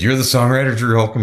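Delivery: can't believe who's in his plane; disbelieving. Retold or imitated. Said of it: "he goes".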